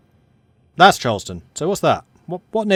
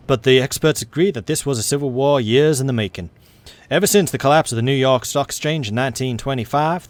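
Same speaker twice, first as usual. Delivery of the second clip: put-on Southern-accented news narrator. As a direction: read event text in a Southern American accent. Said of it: "twisting this southern accent".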